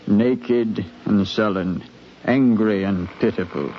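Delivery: calm, measured retelling of the voyage; a captain looking back on the crossing; story narration. A narrator's reading. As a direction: tell it like a ship's log read aloud. Captain narrates below-decks scene.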